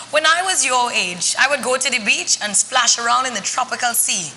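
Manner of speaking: storytelling granny with a hint of Trinidad; a mild Trinidadian granny voice; Granny Vero. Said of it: "I become Granny Vero".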